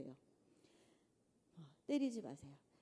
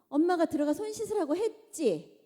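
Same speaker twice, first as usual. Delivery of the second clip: loud, higher scolding mother; irritated mother; 6 semitones higher, 7 dB louder than usual. Acted. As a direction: snap at the kid to go wash. Mother snapping at child.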